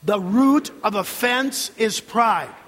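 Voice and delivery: slow, emphatic declaration; said like you mean it. Shown as a demonstration. Preacher leading the congregation to say it as meant, emphatic. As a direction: lead the congregation in saying it with conviction. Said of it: "say it as though you mean it".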